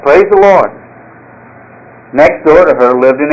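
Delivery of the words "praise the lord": raised, higher proclaiming call; mock shout. Elderly lady on her porch, shouting her praise. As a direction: call it out to the whole street. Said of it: "stand on her front porch and shout".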